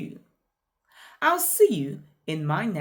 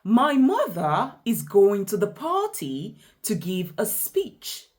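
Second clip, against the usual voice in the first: "party" lifted mid-sentence, then carrying on to "speech"; rise, then more follows. Shown as a demonstration. Teacher repeating the continuing tune, rising on "party" before finishing. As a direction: keep "party" up, then complete it with "to give a speech". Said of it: "Let's take it again".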